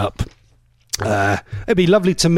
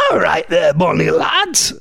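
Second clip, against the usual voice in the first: attempted Geordie accent. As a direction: have a clumsy go at a caller's Geordie. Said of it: "I can't do his accent".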